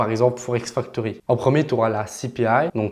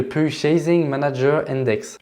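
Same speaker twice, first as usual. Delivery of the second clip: English term in a French speaker's English accent; English accent attempt. Real, not acted. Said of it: "J'adore mon accent anglais".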